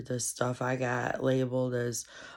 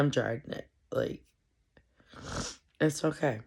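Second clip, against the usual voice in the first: blocked nose, talking through congestion; stuffed-up nasal voice; stuffy nose. Real, not acted. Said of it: "I'm all stuffed up".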